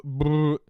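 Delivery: loud lip-flapping brrr; comic lip-trill noise; motorboat noise. Retold or imitated. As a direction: blow a loud raspberry like motorboating. Mimicking Grinch motorboating a woman.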